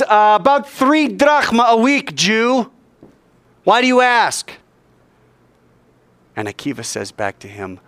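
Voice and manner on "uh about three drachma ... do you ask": high-pitched calling voice of a guard; sentry playing along. Sentry decides to play along with the rabbi, calling down. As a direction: call down from the wall, drawn out.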